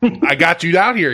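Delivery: cocky. Retold or imitated. Homeowner strolling up to the work crew, cocky. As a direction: play it mildly cocky. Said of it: "all cocky".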